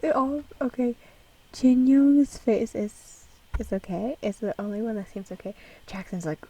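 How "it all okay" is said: laughing apology. Real, not acted.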